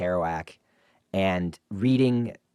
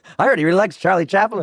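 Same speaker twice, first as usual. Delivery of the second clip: put-on old-time radio voice, higher and louder; 11 semitones higher, 8 dB louder than usual. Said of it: "go old timey".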